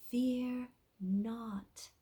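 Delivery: soft, whispered fear not; gentle heavenly whisper. Shown as a demonstration. Angel Ephrael showing Imperial how, soft heavenly whisper. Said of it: "in a gentle, soft, heavenly voice".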